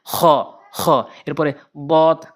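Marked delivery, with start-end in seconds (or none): 0.1-0.9 খ with heavy throat friction; back-throat kho drill. Shown as a demonstration. Teacher repeats for learners, raspy Arabic kh in খ. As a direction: scrape out each খ separately. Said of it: "হলকের শেষ থেকে".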